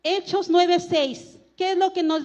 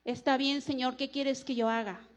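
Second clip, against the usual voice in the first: soft, lowered, resigned consent; quiet submission; 3 semitones lower, 9 dB quieter than usual. Acted. Reluctant preacher yielding to the Lord, softly submissive. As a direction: give in humbly, low and hushed.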